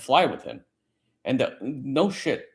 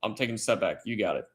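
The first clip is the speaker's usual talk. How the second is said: quiet backing off; 3 semitones lower, 6 dB quieter, faster than usual. Retold or imitated. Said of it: "I'm like".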